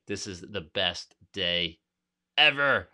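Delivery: triumph bursting out at the finish; elated. Real, not acted. Arriving hiker tells friends, slow then bursting with joy. Reaching top, meeting friends.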